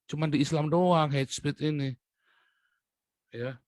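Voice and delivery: usual speaking voice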